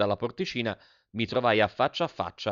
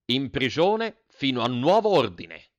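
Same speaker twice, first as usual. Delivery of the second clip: stern order; 4 semitones higher, 4 dB louder, slower than usual. Acted. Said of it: "gli disse".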